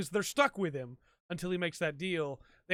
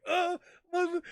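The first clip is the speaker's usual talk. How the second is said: cut-off curse; 11 semitones higher, 3 dB louder than usual. Retold or imitated. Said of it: "he's like".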